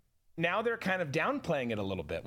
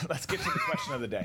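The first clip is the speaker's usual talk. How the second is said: quick whispered segue; whispering; faster than usual. Real, not acted. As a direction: whisper it fast, laughing. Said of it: "Why are we whispering?".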